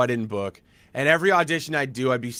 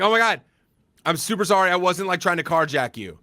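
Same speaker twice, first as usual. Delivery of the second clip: flustered apology; 5 semitones higher than usual. Retold or imitated. Panicked apology to actress.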